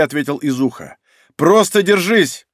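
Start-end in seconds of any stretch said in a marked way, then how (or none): 1.4-2.5 slow urgent plea. Acted. Urging the straining boy.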